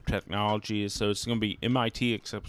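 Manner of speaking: slurred, tipsy words. Real, not acted. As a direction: let the words slur together. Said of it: "Dude, you're slurring your words".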